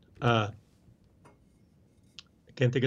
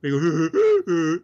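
camel sound; 4 semitones higher, 7 dB louder than usual. Retold or imitated. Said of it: "sound like a camel".

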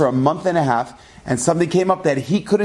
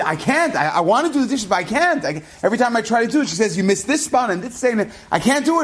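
higher, pleading complaint; frustrated lament; 6 semitones higher than usual. Retold or imitated. Husband complaining to Reb Zelig about his wife, higher and frustrated. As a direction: vent helpless frustration.

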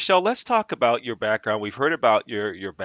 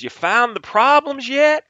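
slow, high and loud mock Southern drawl; the Southern CEO asking, put on with a grin; hammed-up Southern accent, slowed down; fake Southern accent; 9 dB louder than usual. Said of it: "I'm gonna fake a Southern accent".

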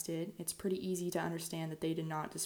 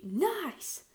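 sarcastic; 10 semitones higher, 4 dB louder than usual. Acted. Mock approval of illegal bars.

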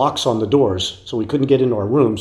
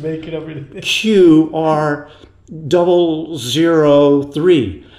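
Buddy reading fake number; 3 semitones higher, much slower than usual.

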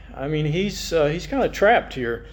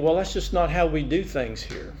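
a touch softer, unbothered and matter-of-fact; calm; 3 dB quieter than usual. Retold or imitated. Preacher imitating Laban brushing off Jacob, mildly calm. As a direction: shrug it off lightly, as if nothing's wrong. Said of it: "can't you hear Laban just calmly saying".

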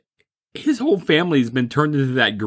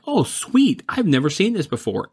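bright pitch jump on "Oh, sweet", eager and pleased; excited; 5 semitones higher than usual. Retold or imitated. Retelling spotting Troll two on HBO, mock excitement. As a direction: sound thrilled to find a movie you haven't seen. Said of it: "And I'm like".

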